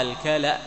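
الكلأ with al-ka-la-' and a short glottal stop at the end; spelled-out pronunciation. Shown as a demonstration. Teacher showing students how الكلأ is said, clearly voweled. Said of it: "محركا مقصورا".

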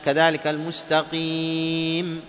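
المستقيم slowed, final mim closed clean with no bounce; clean, slow stop on the mim; correct stop. Shown as a demonstration. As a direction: stop on المستقيم without qalqala. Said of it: "ما نقول إم".

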